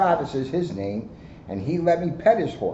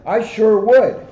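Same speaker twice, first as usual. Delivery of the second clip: eager reply; 7 semitones higher, 8 dB louder, slower than usual. Acted. Excited child accepts invitation.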